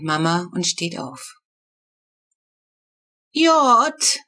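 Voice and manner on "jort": put-on lightly raised small-girl voice; little girl asking. A narrator's reading. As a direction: ask like a sleepy little sister. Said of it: "fragt die Kurze".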